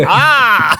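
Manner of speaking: high, loud comic "Ah!"; mock scream. Host cries out as the stone sunglasses go on, mock scream. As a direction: let out a hammed-up yell amid laughter. Acted cry after the stone joke.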